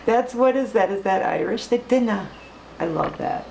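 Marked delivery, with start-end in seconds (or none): 1.7-2.3 dinna said the Scottish way, rolled out playfully; a hint of Scottish brogue; Scottish accent. Shown as a demonstration. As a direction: repeat it with a mild Scottish lilt.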